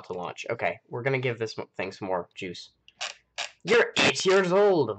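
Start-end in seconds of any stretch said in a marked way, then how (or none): 3.7-5.0 surprised. Real, not acted. Reacting to a viewer's comment.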